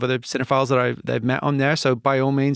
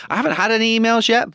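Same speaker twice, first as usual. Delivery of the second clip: laughing; 9 semitones higher, faster than usual. Real, not acted. Laughing at a joke.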